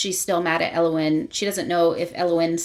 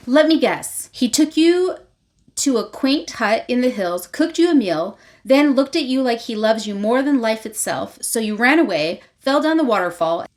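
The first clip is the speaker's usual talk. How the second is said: higher, louder know-it-all recital; retold taunt; 3 semitones higher, 3 dB louder than usual. Vea to Rave, guessing her story, taunting.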